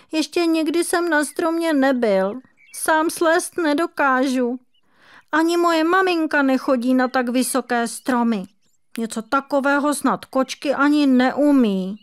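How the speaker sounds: high, protesting little kitten voice; a frightened kitten making excuses; kitten defending himself. A narrator's reading. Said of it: "hájil se kocourek". (bránící se kocourek, vysoký hlásek)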